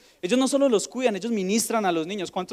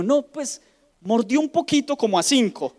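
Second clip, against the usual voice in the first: hesitant teacher; 5 semitones higher, 3 dB louder than usual. Retold or imitated. Teacher reports the bite.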